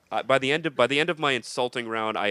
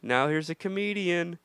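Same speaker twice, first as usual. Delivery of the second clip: DJ announcement; 7 semitones higher than usual. Retold or imitated. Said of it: "the D J cuts the mic. He goes".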